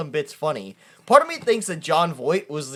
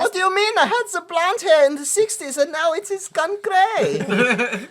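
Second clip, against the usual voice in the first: high, put-on indignant voice; mock Jon Voight; 10 semitones higher than usual. Jon Voight defending his unchanged looks, high. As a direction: protest like the villain. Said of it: "voicing Jon Voight".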